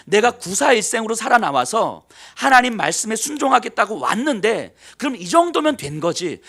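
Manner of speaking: loud, heated pleading with God; angry complaint. Acted. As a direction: protest hotly to God. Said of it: "요나가 이제 화를 냅니다". (하나님께 화내며 따지는 요나)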